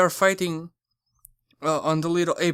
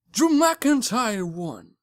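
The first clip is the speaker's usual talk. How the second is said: slow, higher triumphant call; excited winner reveal; 4 semitones higher, slower than usual. Real, not acted. Telling viewers who won the match, excited. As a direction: draw out the big win, raised pitch.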